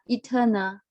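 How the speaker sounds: "Eternal" with the "ter" syllable stressed, e-TER-nal; stress on second syllable. Shown as a demonstration. Teacher modelling "Eternal" for the class, stress on "ter". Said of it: "So the stress is on the second syllable".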